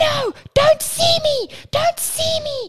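very high, drawn-out, furious screaming. Describing Red's screaming son, the speaker acts out his words: retelling an angry yell. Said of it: "He's yelling like angry".

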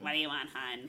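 diner waitress voice with a smoky smoker's rasp. A speaker imagines a diner waitress in her sixties, diner waitress smoker voice. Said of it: "a waitress at a diner with like a smoker voice".

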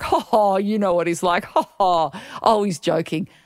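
chuckling it off lightly, laughing and dismissive. Retelling how the hr department answered, imitating someone laughing it off. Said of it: "they tried to laugh it off".

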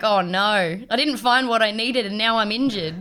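usual speaking voice

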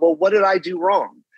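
ordinary talk, nothing marked

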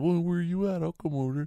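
very high, loud, challenging hollered yell. Retelling a man's yelled reply during an argument with him off the porch, imitating a man yelling. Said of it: "He yelled".

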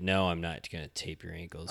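ordinary talk

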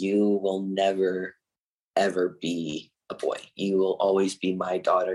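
normal talking voice

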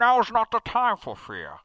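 muffled as through cupped hands, slow and swooping. Showing how the voice effect works by cupping the voice: muffled Bane voice. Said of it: "I can't do it as well".

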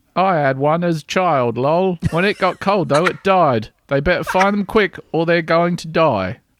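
broad-ish northern Lancashire accent, authentic. Reading messages from the UK aloud, in a Lancashire accent. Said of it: "do it in an authentic Lank accents".

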